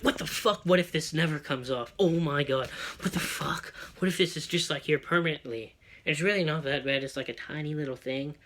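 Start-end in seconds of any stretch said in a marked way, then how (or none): 0.0-5.7 freaking out. Retold or imitated. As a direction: replay a spiral of worry with some urgency. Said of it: "I was still freaking out".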